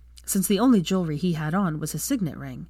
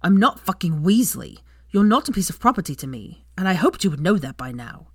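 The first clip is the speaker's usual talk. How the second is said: louder, exasperated shout; shouting back; 5 dB louder than usual. Acted. Draco losing his temper at Hermione, shouting back. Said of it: "shouted back at her".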